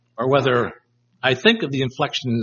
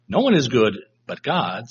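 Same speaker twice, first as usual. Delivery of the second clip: thought-provoking; 3 semitones lower than usual. Shown as a demonstration. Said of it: "It gets him to think".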